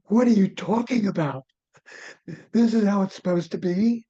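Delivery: mildly furious wife. Retold or imitated. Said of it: "She was furious when she heard that".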